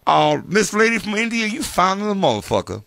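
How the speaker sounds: high, leering mock host; mock Steve Harvey. Mocking Steve complimenting Miss India, high and leering. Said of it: "voicing Steve flirting".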